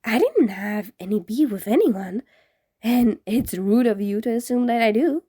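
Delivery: lightly offended pouting ghost; a hammed-up huff; mock pout. Ghost pretending to be offended, mock pout. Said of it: "in a fake pout".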